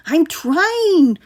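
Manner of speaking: loud, high strained bellow. A narrator's reading. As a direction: shout back in frustration. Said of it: "Ryan bellowed".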